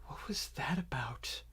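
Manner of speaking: hushed, whispered question; Twig. Acted. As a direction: lean in and whisper it softly to a companion. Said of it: "feel Twig's arm on your shoulder going".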